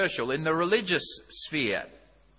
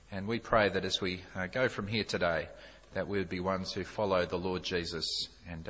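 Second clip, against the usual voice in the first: low, measured praying voice; prayer; 5 semitones lower than usual. Acted. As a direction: pray earnestly on the congregation's behalf. Leads the congregation in prayer.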